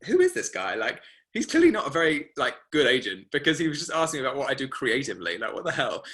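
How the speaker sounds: put-on a touch of young scoffing; mock indignant. Student dismissing the agent after the chat, mildly scoffing. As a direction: scoff at the agent, half-joking. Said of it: "came away from that conversation being like".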